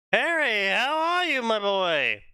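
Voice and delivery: a hint of a grandfatherly wizard; Dumbledore voice. Reading the fanfic, Dumbledore greets Harry in a lightly put-on old wizard voice. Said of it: "Dumbledore asked".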